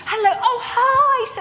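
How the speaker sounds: high, bright, laughing hello; hammed-up eager greeting, laughing; overly enthusiastic. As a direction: gush like an old friend. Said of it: "overly enthusiastic".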